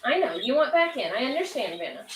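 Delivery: sing-song pet talk; indulgent, lilting reassurance to an animal. Real, not acted. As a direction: soothe a pet with swooping pitch. Soothing her pet guinea pig.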